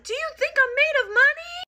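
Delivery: very high, tearful wail, imitated; exaggerated near-crying exasperation; about to cry. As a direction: plead it like a mom on the verge of tears. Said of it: "Like, about to cry".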